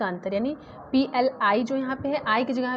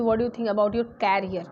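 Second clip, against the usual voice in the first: slow example sentence; 2 semitones lower, much slower than usual. Shown as a demonstration. Teacher modelling an English sentence, slow and clear. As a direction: read it slowly, word by word. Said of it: "बात कर रही कि".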